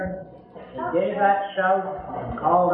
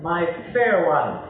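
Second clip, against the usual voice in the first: tender call; slower than usual. Acted. The Lord calling his bride, tender and rising. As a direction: call out tenderly, then let it settle. Preacher voices the Lord's call.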